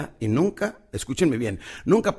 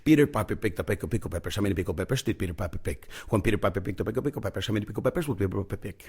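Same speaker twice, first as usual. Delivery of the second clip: pen in mouth; 4 semitones lower, 5 dB quieter than usual. Shown as a demonstration. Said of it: "estaba yo con mi pluma en mi habitación".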